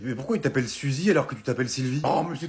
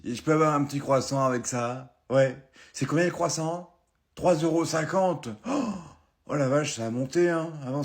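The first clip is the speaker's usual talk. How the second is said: a lightly voiced old man, lower and complaining; grumpy pensioner; 3 semitones lower than usual. Old pensioner in a café complaining to the waitress about prices, grumpy. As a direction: grumble like a cranky old customer.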